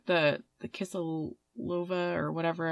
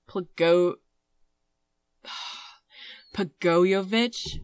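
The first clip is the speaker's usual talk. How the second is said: slow, questioning "Pagoyevich", rising at the end; sigh, then sound out "Pagoyevich" as a drawn-out question; unsure pronunciation; much slower than usual. Real, not acted. Host attempting a Serbian surname, unsure and questioning. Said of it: "Just pick something and, and stick with it confidently".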